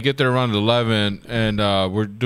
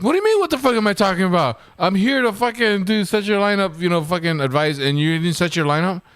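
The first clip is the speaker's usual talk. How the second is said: higher, fast, incredulous rant; mock exasperated rant; 6 semitones higher than usual. Telling off a friend for skipping his lineup, fast mock rant. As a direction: pile on the disbelief quickly.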